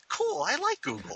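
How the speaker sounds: high, slow gushing delight; gushing fanboy. Retold or imitated. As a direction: coo it like a smitten fan. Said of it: "I'm like".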